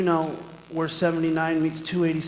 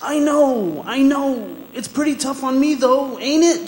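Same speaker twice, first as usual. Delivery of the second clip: strained resignation; 9 semitones higher, 7 dB louder than usual. Acted. Prisoner faces losing his appeal.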